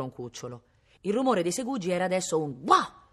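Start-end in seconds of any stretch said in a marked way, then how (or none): 2.6-3.1 loud, high "wah" of annoyance; short, frustrated dog bark; spiteful bark. A narrator's reading. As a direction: yelp out one vexed hound's bark. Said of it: "di dispetto".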